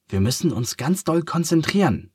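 put-on high, eager children's voices; children calling. A narrator's reading. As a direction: call it out like little elephant kids. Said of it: "rufen sie".

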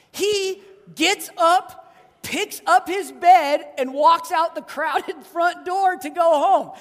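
rising excitement, slow and loud; excited. Real, not acted. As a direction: marvel at it as you tell it. Excited retelling of the healing.

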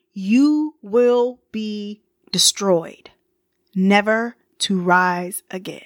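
slow, breathy threatening whisper; menacing whisper. Retold or imitated. King threatening Sparta by letter, in a menacing whisper. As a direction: hiss the threat like a warlord.

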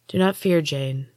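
gentle, fading soothing voice. Acted. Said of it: "the woman said in a soothing voice".

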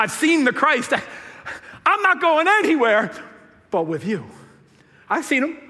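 can't wait to go along; lightly voiced eager follower; eager healed man.

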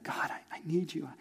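soft intimate whisper; whispered prayer. Pretend. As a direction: pray it under your breath.

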